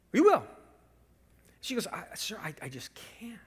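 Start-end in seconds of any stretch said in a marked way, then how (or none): 0.1-0.4 high, loud imitation of an entitled customer; demanding. Customer insisting the cashier ring him up, demanding. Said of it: "he began to demand his rights". 1.9-3.4 hushed, halting imitation of a cashier; apologetic near-whisper. Cashier turning down an angry customer, softly apologetic.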